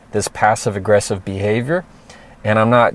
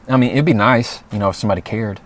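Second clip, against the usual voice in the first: mild snide remark; faster than usual. Retold or imitated. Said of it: "they make this comment".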